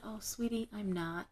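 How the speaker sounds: softly retold, tender reply; gentle letdown. Reader lets down a hopeful young client, gentle.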